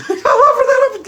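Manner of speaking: high squeaky mock-girl echo, laughing; Stephanie voice. Stephanie parrots her coach's line in a high squeaky voice. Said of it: "my Stephanie imitation".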